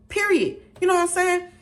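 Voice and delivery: high and loud, fired up; outraged high shouting rant. Real, not acted. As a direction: shout it up high, fully offended. Outraged rant about rude manager.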